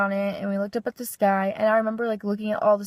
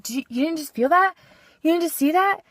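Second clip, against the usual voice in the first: rising, higher disbelief; incredulous; 7 semitones higher than usual. Retold or imitated. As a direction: ask it amazed she missed it. Disbelieving repeated question.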